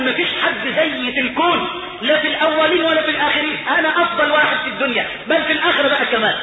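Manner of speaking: elated boast. Acted. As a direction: voice a man marvelling at his own luck. يمثّل آخر الناجين مبتهجًا بحظه.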